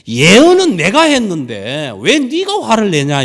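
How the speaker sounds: loud, slow, stern rebuke from God. Acted. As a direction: thunder the question down at him. Voicing God's rebuke.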